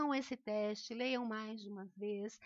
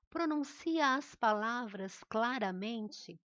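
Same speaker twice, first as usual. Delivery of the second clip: slow, louder, carefully separated words; clear enunciation; 5 dB louder, slower than usual. Shown as a demonstration. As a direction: pronounce each word slowly and firmly. Teacher models clear articulation.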